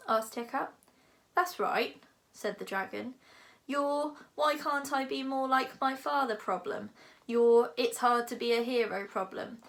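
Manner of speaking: lightly voiced lofty dragon, lecturing; a big dragon musing grandly. Dragon speaks.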